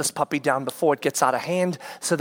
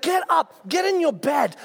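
much higher barked command; angry order; 11 semitones higher than usual. Retold or imitated. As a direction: order them to bed. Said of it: "I'm shouting at them".

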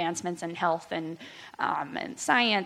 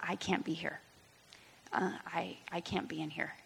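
despairing thought; 11 dB quieter than usual. Retold or imitated. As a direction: say it as if barely able to get the words out. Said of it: "and I just thought".

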